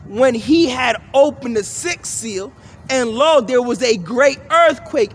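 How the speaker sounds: measured, emphatic Bible reading; scripture reading. Acted. Preacher reading prophecy of the seals, emphatic scripture reading. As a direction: proclaim each phrase with deliberate stress. Reads scripture aloud to listeners.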